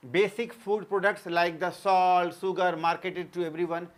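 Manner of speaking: very slow, evenly spaced words for note-taking; teacher dictating notes word by word; slow dictation. Acted. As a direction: read it out slowly so students can write. Reads English example as dictation.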